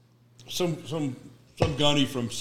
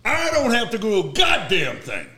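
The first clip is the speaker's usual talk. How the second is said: 1 angry warning; 3 semitones higher, 3 dB louder than usual. Retold or imitated. Retold phone argument.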